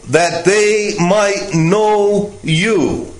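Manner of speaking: "know" drawn out slowly; slow, separated words landing on "know"; stress on KNOW. Shown as a demonstration. Preacher pointing listeners to one word in the verse, stressing "know". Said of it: "focus in the same verse".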